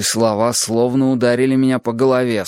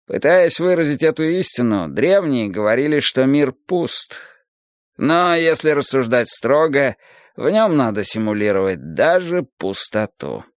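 lightly voiced philosophical teacher, raised pitch; Adonis expounding; 5 semitones higher than usual. Adonis expounds the emptiness of the world, lifted lecturing voice. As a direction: expound it as a patient sage, slightly lifted.

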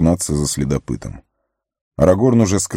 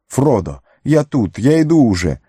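high shout while running; 7 semitones higher than usual. Acted. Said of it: "кричал он с разбегу".

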